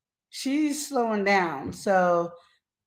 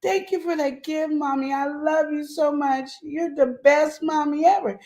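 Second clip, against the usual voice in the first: lightly voiced little boy, a bit higher; a hint of a grateful small child; sweet little boy; 6 semitones higher than usual. Son coming back to thank mommy, lightly voiced child. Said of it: "he comes back and goes".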